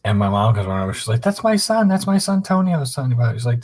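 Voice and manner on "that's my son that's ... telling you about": higher, louder, beaming proud mother; proud mom voice. Retold or imitated. Mom proudly introducing her son to the bouncer, higher and beaming. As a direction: show off your son to the bouncer.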